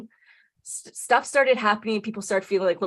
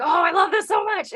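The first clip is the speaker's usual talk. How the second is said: high-pitched delighted gush; gushing, pitch soaring; retold excitement; 11 semitones higher, 3 dB louder than usual. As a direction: re-enact being thrilled. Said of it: "it was so exciting".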